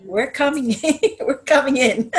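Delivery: high, laughing playful spirit voice; spirit guides' voice. Retold or imitated. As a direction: lightly voice the guides arriving. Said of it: "they told me".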